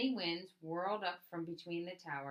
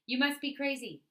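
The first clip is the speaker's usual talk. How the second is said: incredulous police; 8 semitones higher, 9 dB louder than usual. Acted. Police scoffing at the plan.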